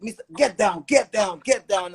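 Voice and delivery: retold police shout. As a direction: bark the orders like an officer at gunpoint. Police raid, officers shouting orders.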